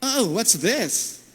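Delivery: slow, teasing high voice; mock-innocent question; playful reply. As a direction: tease her gently. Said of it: "sabi ko".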